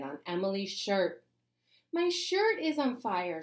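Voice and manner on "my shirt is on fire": high, loud, slow panicked shout. A narrator's reading. Emily panicking as her shirt catches fire, high shout. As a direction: cry out in panic, drawn out and high. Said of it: "shouted Emily".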